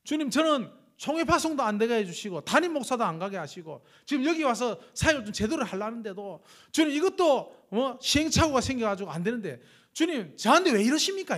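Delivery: irritated complaint. Retold or imitated. Missionary complaining to God walking at night, rising exasperated outburst. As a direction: build up the grievance until it bursts. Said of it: "막 짜증이 났어요".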